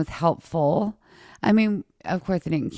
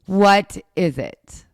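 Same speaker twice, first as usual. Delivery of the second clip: sarcastic taunt. Retold or imitated. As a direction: goad her sarcastically, drawing it out.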